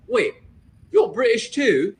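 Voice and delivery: slow, imitated British accent; put-on British, drawn out. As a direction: play a surprised British stranger. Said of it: "that exact same accent".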